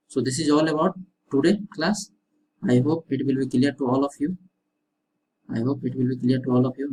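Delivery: very slow, drawn-out closing words; unhurried farewell to students; slow sign-off. Shown as a demonstration. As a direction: wind the class down, slowly. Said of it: "closing the class slowly".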